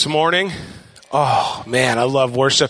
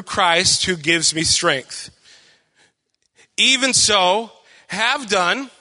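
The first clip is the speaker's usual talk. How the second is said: scripture reading; 4 semitones higher than usual. A narrator's reading. Pastor reading Philippians to church, scripture reading. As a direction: read the verse out to a congregation.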